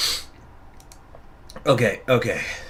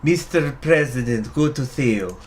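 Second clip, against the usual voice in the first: fumbled attempt at her voice; a stumbling first try at the voice; botched character voice; 2 semitones higher than usual. Shown as a demonstration. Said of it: "I'm fucking it up".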